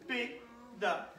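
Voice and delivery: "Pédale" slowly, syllable by syllable; split into syllables. Shown as a demonstration. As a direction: break "Pédale" into three slow, separate beats. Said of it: "découpe en syllabes".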